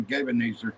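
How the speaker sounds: "Gabe" with a long A, as in babe; low, settled GAYB at the start of "Gabe Ebenezer"; first pronunciation. Shown as a demonstration. Repeating the corrected name to himself, long-A pronunciation. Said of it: "The first one".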